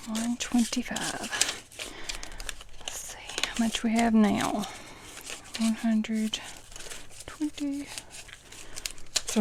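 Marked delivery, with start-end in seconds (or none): 0.1-7.9 soft, slow tallying to herself; quiet, absorbed counting aloud; counting under breath. Real, not acted. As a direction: murmur the count, fading toward a whisper.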